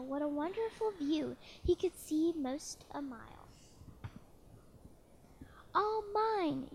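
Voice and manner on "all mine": high gleeful cry, a bit louder; triumphant cry. Acted. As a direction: crow it out in triumph. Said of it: "Yertle cried".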